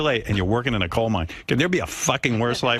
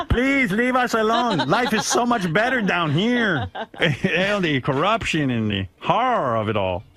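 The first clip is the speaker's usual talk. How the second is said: high, slow pleading miner; trapped miner voice; 5 semitones higher, slower than usual. Pretend. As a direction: beg to stay down in the mine. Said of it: "they're probably like".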